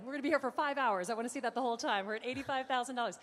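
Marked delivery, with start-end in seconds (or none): 0.0-2.1 playful fake threat about the long auction; mock grim joke. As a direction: tease the crowd with a fake threat. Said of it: "I'm kidding".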